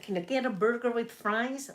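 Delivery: a lightly done American accent; hint of American accent, barely shifted. Shown as a demonstration. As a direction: order a burger in a weak American accent. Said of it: "That's, that's my American".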